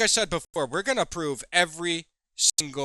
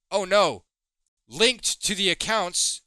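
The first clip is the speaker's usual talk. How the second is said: sarcastic mock alarm; 3 semitones higher, slower than usual. Sarcastic mock of her excuse.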